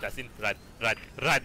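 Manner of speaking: urgent, rising calls to run; being chased. Real, not acted. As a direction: warn a teammate in a panic. Artillery incoming, fleeing.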